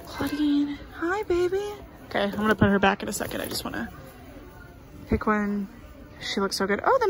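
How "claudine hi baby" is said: high-pitched, affectionate coo; sweet, high doll-talk. Real, not acted. Coos at a doll.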